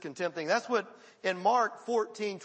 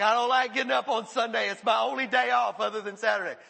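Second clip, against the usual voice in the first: put-on whiny kid; 5 dB louder than usual. Voicing a reluctant young churchgoer.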